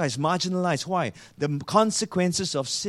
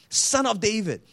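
higher-pitched, mild imitation of a plea; quoted call, raised in pitch but not shouted; retold calling out; 5 semitones higher than usual. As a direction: lightly voice a man calling for attention. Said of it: "the blind man calling out to Jesus".

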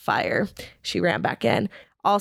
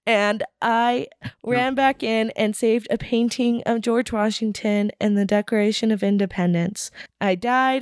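nervous; 4 semitones higher than usual. Pretend. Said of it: "that's how nervous I was when I was presenting".

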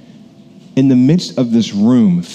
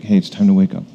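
gentle wake-up call; 2 semitones lower, faster than usual. Retold or imitated. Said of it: "helps her st-, wake".

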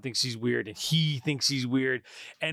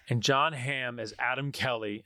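put-on lightly American accent on the name; a hint of an American accent. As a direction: slip into a mild American accent for the actor. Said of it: "saying it in an American accent".

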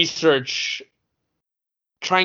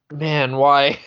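laughing; 5 dB louder than usual. Real, not acted. Reacting to crude joke, laughing.

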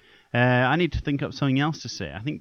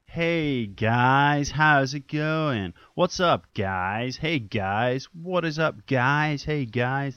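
influencer greeting; 3 semitones higher, much slower than usual. Pretend. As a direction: greet the fans like an Instagram influencer. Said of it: "that's what they all say".

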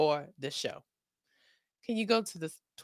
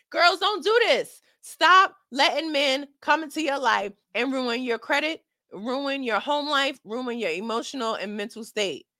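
put-on preaching to girls; 3 semitones higher, 6 dB louder than usual.

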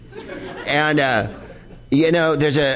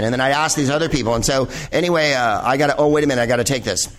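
self-absorbed Californian; faster than usual. Retold or imitated. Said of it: "We fill our conversations with things like".

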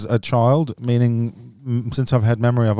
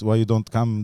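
lightly imitated Lebanese-accented English; a hint of a Lebanese parent's accent; parents' Lebanese accent. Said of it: "our parents spoke with the accent".

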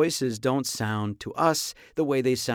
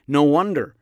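loud, exclaimed realization; acted dismayed outburst; mock dismay; 3 semitones higher, 8 dB louder than usual. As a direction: hit it loud with mock exasperation. Mock horror at own voice.

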